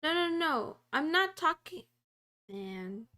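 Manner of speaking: loud, insistent no; exasperated protest. Real, not acted. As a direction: push back hard, fed up. Arguing with the AI tool.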